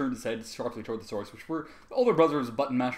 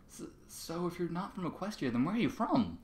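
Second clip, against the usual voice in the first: hesitant, stammering little filly; nervous; 5 semitones higher, 5 dB quieter than usual. Acted. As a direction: ask it timidly, tripping at the start. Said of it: "Scootaloo asked nervously".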